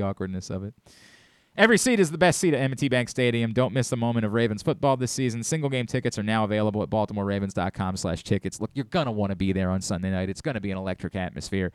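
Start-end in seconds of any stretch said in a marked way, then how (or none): 1.6-11.7 ad read. Acted. Live read for Ravens tickets.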